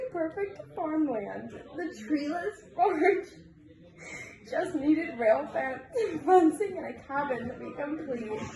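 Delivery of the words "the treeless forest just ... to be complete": reading through giggles; fighting back giggles; giggling. Real, not acted. Reader giggles through a story.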